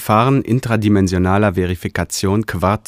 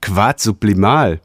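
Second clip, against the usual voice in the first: pleased, eager call; delighted. Acted. Realigator hears of a rare find, delighted. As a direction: sound thrilled at the discovery. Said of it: "rief der Realigator erfreut".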